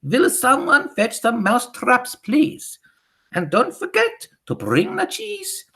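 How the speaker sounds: witch mimicking frantic teachers; very high, loud mock panic; mock shouting. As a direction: shriek it like a teacher up on a desk. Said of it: "upon the desks and shout".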